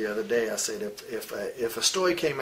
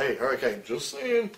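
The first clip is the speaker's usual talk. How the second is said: mocking passive-aggressive colleague. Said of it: "Everybody would go".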